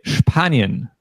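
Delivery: Spanien with a sh sound at the start; German Spanien, sh before the p. Shown as a demonstration. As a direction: Spanien said as Shpanien. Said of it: "we always pronounce it sp".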